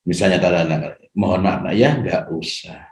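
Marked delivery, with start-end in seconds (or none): 1.1-2.9 put-on soft, calm refusal to a child; gently firm parent. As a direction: say no kindly but firmly, softer. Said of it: "Nah, itu tegas". (menolak anak dengan lembut tapi tegas)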